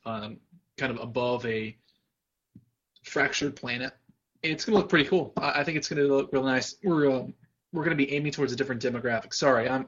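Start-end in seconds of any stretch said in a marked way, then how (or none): 4.4-9.3 words pushed through a burp; talking while burping. Real, not acted. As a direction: speak around a rising burp. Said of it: "I'm burping up, uh, dinner here".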